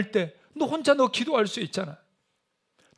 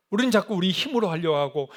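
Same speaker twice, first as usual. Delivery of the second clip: ordinary talk, nothing marked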